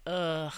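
drawn-out ugh of disgust; disgusted groan. Real, not acted. Podcaster reacting to a child's killing, disgusted groan. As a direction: groan in revulsion. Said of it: "that's the part that made this just like".

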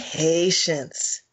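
deliberate, unhurried repeat; slow for emphasis. Real, not acted. Repeating her lesson to a friend, slow for emphasis. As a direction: say it slowly to drive it home. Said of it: "I deliberately say that slowly for emphasis".

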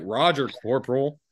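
pointed, mock-obedient reply; cheeky imitation of a drunk acknowledging orders; disrespectful drunk. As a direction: answer the superior with drunken insolence. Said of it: "I'm being disrespectful as fuck".

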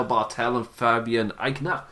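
put-on name said in a light German accent; slow, lightly put-on German accent. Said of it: "I did his in the German accent".

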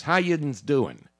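slow Pittsburgh "How yinz doing"; Pittsburgh dialect. Shown as a demonstration. Showing how Pittsburgh greets people, slow local dialect. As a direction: demonstrate Pittsburgh speech, drawn out. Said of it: "in Pittsburgh they say yins".

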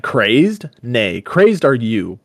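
indignant, drawn-out retort in a dramatic reading; acted anger, stretched out slowly; angry cry. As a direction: fling the charge back, slow and heated. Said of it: "anger drove pity from Brandir's heart".

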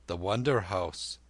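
lightly voiced old man musing; old lama. Old lama echoes the boy.

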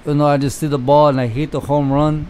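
lightly imitated Dominican accent; broken-English Dominican accent.

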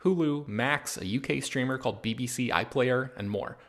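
smooth, scripted podcast ad read; sponsor ad read. Acted. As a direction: read the sponsor copy as a personal recommendation. Reads a sponsor ad.

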